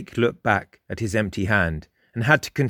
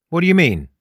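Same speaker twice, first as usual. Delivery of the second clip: higher skeptical question; doubtful, raised-pitch challenge; 6 semitones higher, 4 dB louder, faster than usual. A narrator's reading. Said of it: "in a skeptical tone".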